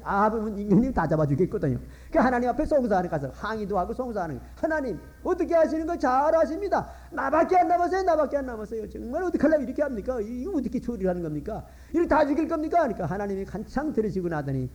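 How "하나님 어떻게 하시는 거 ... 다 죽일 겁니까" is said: pleading protest to God. Acted.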